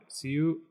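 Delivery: "Ciudad" split as "ciu", then "dad"; teacher's syllable-by-syllable "Ciudad"; divided into syllables. Shown as a demonstration. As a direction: sound out "Ciudad" in two parts. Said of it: "going to divide them up".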